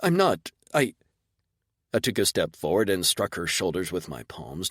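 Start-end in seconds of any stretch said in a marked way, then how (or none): 0.0-0.9 high, frightened squeak. Acted. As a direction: squeak it out in shock. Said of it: "Loopsy squeaked dazedly".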